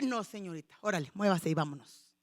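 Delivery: low, firm command; stern mother. Retold or imitated. Mother firmly ordering her daughter to church. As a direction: order her to get moving.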